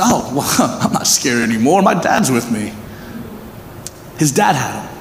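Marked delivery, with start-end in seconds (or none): 0.0-2.7 put-on child's voice. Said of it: "He said".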